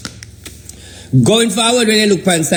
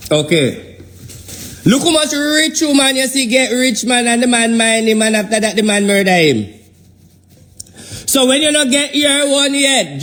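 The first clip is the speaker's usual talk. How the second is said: raised, building sermon voice; preaching. Acted. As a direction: preach it out to the congregation, rising as you go. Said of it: "you see how that preaching just come naturally".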